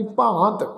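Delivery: ਭਾਂਤ with a nasal long aa; nasalised vowel. Shown as a demonstration. Teacher showing the congregation the reading, ਭਾਂਤ with nasal long aa. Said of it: "ਕੰਨਾਂ ਉੱਪਰ ਬਿੰਦੀ ਲਗਾ ਕੇ".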